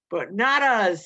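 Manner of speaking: loud, bright joyful cry; triumphant delight; happy. A narrator's reading. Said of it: "said Lenny happily".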